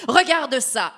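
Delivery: giant yelling. Acted. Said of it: "hurle le géant".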